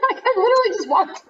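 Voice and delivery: put-on high whiny teen voice; whiny teenager. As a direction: whine it like a sulky preteen. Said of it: "when she's like".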